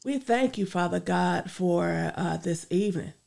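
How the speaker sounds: earnest spoken prayer. Acted. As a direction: pray it out sincerely. Leads a closing prayer.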